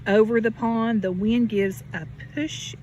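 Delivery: gentle storybook read with a lift on each refrain; reading to children. Acted. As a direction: read it like a bedtime picture book for a little one. Reading picture book to child.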